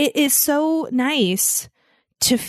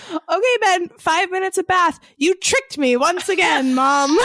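laughing; 8 semitones higher, 3 dB louder than usual. Retold or imitated. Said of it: "it cracks me up".

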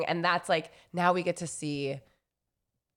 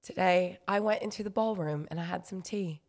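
put-on English accent; 5 dB quieter than usual. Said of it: "Give me a sentence".

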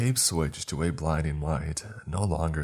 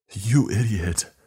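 loud, high, drawn-out shriek; 5 semitones higher, 6 dB louder, slower than usual. Acted. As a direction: shriek the insult slowly. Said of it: "Tommy shrieked".

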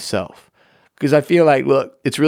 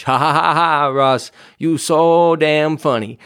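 mock laugh at himself; 4 semitones higher, slower than usual. Mocking his own pun.

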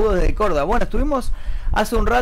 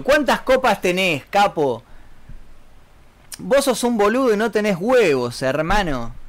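cocky porteño taunt, higher at the start; hammed-up Argentine accent; 3 semitones higher than usual. Shown as a demonstration. Streamer hinting their country to guessing viewers, hammed-up Argentine accent. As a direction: taunt like a Buenos Aires local. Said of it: "¿Desde cuándo en Venezuela hablan así?".

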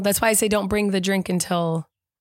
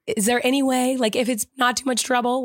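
higher, sweet and overly polite; polite request; 5 semitones higher than usual. Retold or imitated. Wife quoting how she asked the waiter, sweetly polite. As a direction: ask as nicely as possible. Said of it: "I said it like that".

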